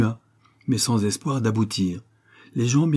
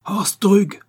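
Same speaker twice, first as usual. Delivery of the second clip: loud barked name, much higher; growled call; 11 semitones higher, 6 dB louder than usual. A narrator's reading. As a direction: snap out the henchman's name. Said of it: "grogna-t-il".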